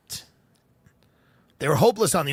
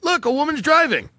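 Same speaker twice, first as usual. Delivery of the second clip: mock cheering officials; 4 semitones higher than usual. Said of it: "and they go".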